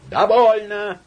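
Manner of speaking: high, loud, gasping cry; breathless shout. Acted. Laevsky cutting off Samoylenko, breathless shout. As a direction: cut him off, out of breath. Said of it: "задыхаясь".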